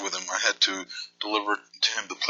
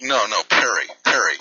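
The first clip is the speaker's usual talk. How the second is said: louder, firm correction of the name; insistent correction; 5 dB louder than usual. Pretend.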